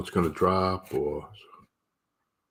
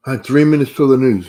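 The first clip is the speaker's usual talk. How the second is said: excited; 7 semitones higher, 11 dB louder than usual. Real, not acted. Countdown to market news.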